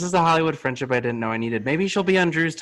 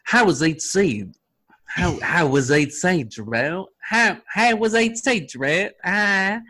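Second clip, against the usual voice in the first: slow, exaggerated Australian accent; 5 semitones higher, slower than usual. Host voices Toni asking Drew about E.T., Australian accent. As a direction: struggle into a drawn-out Australian accent. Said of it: "The Australian accent".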